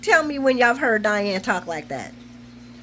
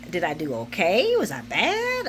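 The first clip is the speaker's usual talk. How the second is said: mock insecurity; 4 semitones lower than usual. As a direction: imitate someone nervously fishing for praise. Voicing him fishing for praise.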